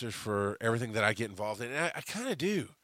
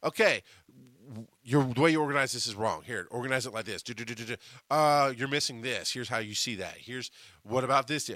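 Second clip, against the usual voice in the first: executive producer. Retold or imitated. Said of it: "mindset of executive producer going".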